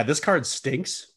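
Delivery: slow, drawn-out disgusted verdict. Real, not acted. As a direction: drag it out like something smells bad.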